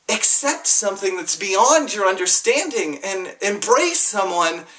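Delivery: Jesus frustrated with the self-righteous; frustrated rant. Retold or imitated. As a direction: voice Jesus fed up with hypocrites. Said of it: "He got frustrated".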